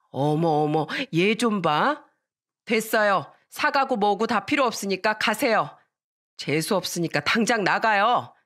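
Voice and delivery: lightly acted affronted woman; indignant neighbour mother. Friend's mother throws them out, affronted scolding. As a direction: dismiss them with scandalized indignation. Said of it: "친구 엄마는".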